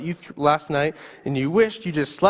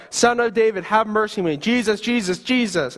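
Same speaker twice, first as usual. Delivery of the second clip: desperate yell; 5 semitones higher than usual. Acted. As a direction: keep yelling over those hushing you. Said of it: "You continue to yell".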